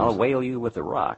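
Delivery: high, loud mock-Baltimore threat; Baltimore accent. Friend trading hometown sayings for laughs, Baltimore accent. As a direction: threaten playfully in broad Baltimore talk. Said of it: "the way they talk down there".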